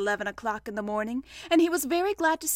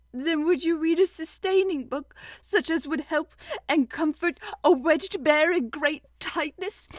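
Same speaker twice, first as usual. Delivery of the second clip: higher, halting, mildly tearful plea; 5 semitones higher, 3 dB louder than usual. A narrator's reading. Pooh begging a comforting book, tearful. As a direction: plead sadly between small breaks. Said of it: "a tear rolled down his eye".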